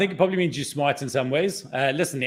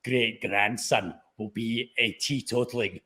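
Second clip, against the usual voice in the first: squeaky mock voice; 3 semitones lower, 4 dB quieter, slower than usual. Mock voice about future grandson.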